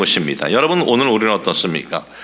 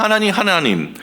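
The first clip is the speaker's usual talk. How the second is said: mildly aggrieved plea, pitched higher; voicing a higher-pitched grumbling prayer; mock complaint; 5 semitones higher than usual. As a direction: imitate a protest to God, lightly resentful. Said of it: "이렇게 원망하고 불평하고".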